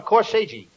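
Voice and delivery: "corsage" said as "cor-say-jee"; mispronounced corsage. Acted. Comedian proudly telling his partner about the gift, mispronouncing "corsage" as "cor-say-jee". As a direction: say "corsage" wrongly, ending in a "jee" syllable. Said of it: "not corsage".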